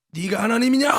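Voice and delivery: loud challenging question, rising at the end; God's sudden rebuke, voiced loudly; repreensão retórica. Retold rebuke from God.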